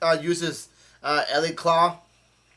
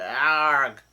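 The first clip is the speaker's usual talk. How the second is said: drawn-out "aargh", only partly raised; mild mock scream; 4 dB louder than usual. Retelling Carrot trapped in the mirror world, restrained mock scream. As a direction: imitate a scream at half strength. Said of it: "screaming, like".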